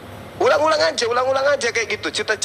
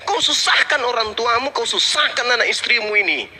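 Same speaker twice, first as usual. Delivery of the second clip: real anger; 5 semitones higher than usual. Real, not acted. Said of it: "Baru kali ini saya marah betul".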